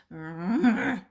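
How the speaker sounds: mock growl of a teased dog; imitated dog grumble. Trainer imitates a dog being teased, mock growl. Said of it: "and she goes".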